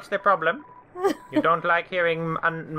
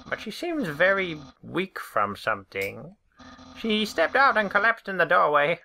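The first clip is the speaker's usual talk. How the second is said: lively game character voice; character dialogue read; 3 semitones higher than usual. Acted.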